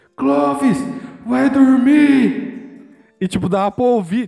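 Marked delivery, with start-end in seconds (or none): 0.2-2.6 mock rough, high, raspy heckling yell. Retelling how a brother heckled a guitarist at a party: imitating brother yelling. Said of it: "meu irmão gritava".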